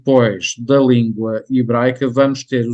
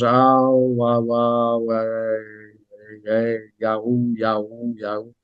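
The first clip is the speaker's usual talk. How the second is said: strange sailor sounds; 2 semitones lower, much slower than usual. Shown as a demonstration. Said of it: "determinados sons, eh, que, eh, nos parecem estranhos".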